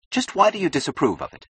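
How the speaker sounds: high-pitched, testy challenge; sharp, irritated demand; snapped. A narrator's reading. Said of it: "snapped Keating".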